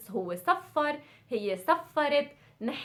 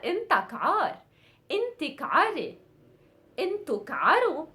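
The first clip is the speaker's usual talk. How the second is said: fast commands; 3 semitones higher, much faster than usual. Shown as a demonstration. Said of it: "commanding verbs".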